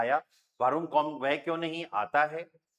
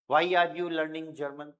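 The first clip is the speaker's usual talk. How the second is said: slow, careful English; slow translation; much slower than usual. Shown as a demonstration. Teacher translating question slowly for class. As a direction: say each word slowly. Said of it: "teacher translating slowly".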